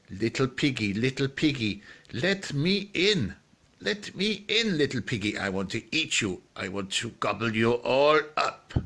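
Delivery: wolf coaxing and threatening at the door; big bad wolf. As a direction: draw it out like a hungry wolf. Story wolf demanding entry at door.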